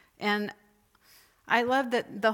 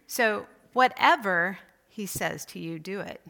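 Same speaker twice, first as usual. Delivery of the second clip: WHATEVER leaned on, louder; stress on WHATEVER; 4 dB louder than usual. Shown as a demonstration. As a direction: hit the word whatever. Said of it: "each time you emphasize a different word or phrase".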